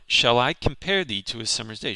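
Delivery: measured recital of the line; poem reading. Shown as a demonstration. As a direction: read the line like verse. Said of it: "we'll go through it line by line".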